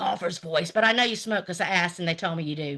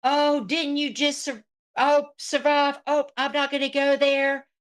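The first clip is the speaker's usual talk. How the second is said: higher-pitched imitation of rival; mocking retold quote; 4 semitones higher than usual. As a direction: mimic her holding back a jab. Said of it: "She was like".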